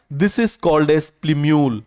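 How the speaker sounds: each word spaced out for the class to repeat; slow teaching drawl. Shown as a demonstration. Teacher slowly spelling out the term for students. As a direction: lay it out slowly so they can say it back. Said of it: "क्या बोलेंगे आप मुझे बताइए जरा".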